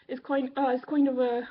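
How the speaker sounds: a hesitant stab at a Newfie accent, coming out Irish; attempted Newfie accent slipping into Irish. Shown as a demonstration. Vlogger attempting her grandmother's Newfie accent, slipping into Irish. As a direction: try a Newfie lilt and land in Irish. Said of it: "no, it's, I'm doing Irish now".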